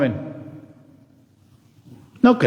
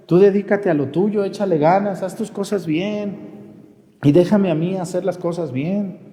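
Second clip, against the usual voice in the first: indignant protest; 4 semitones higher than usual. Acted. Imagined protest to an envious person.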